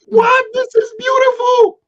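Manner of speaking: high excited joy. Real, not acted. Recalling the night he met Christ, excited. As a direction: rise up with joy. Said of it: "I was excited".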